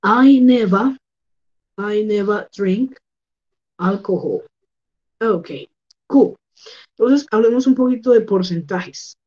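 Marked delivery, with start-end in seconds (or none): 0.0-4.4 slow "never" with the r dropped; teacher modelling British "never"; other pronunciation. Shown as a demonstration. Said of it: "con una pronunciación diferente".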